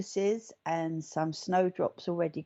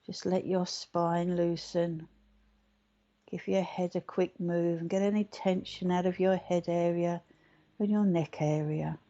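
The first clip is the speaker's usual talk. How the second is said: guided meditation. Acted. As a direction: guide them gently into relaxation.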